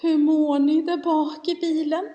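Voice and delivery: mildly sheepish re-enacted question; humbled. Humbled mamma asking children in back seat, mildly meek. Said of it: "brukar jag ödmjuka mig och säga".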